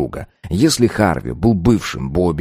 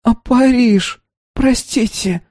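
muffled, face in the tablecloth; head on desk; slower than usual. A narrator's reading. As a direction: mumble with face pressed to table. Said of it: "не отрывая лица от скатерти".

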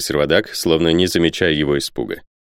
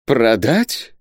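raised, questioning cry; shocked exclamation; 6 semitones higher than usual. Acted. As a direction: exclaim it in disbelief, rising at the end. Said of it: "воскликнул Исаак Хакабут". (возмущённое восклицание с подъёмом)

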